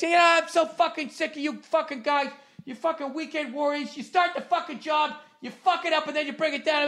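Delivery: high, strained imitation of a ranting mechanic; hammed-up angry mechanic chewing him out; mock mechanic scream. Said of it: "And all this fucking scream".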